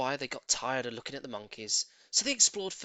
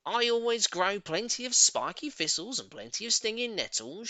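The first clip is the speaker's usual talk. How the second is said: lightly raised, spiteful boast; a hint of Missus Twit; 7 semitones higher than usual. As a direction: boast smugly about the thistles. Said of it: "she used to say".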